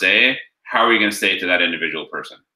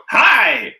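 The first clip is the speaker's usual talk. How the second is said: "hi" squeaked much higher and louder; a jarring bright "hi" pitched way up; mismatched chirpy hi; 6 dB louder than usual. Shown as a demonstration. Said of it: "you're already out of friggin' rapport".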